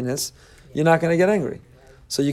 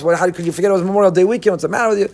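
louder, fast exasperated blaming; mock yell; 5 semitones higher, 6 dB louder, faster than usual. Frustrated father yelling at his spouse, fast and loud. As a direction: snap at the spouse. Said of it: "by yelling at your spouse".

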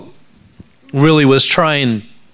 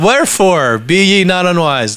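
scripture reading; 5 semitones higher than usual. Real, not acted. Reads scripture aloud in raised voice.

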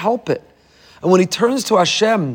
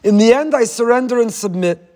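pleading protest; 5 semitones higher than usual. Retold or imitated. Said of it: "turn to him and say".

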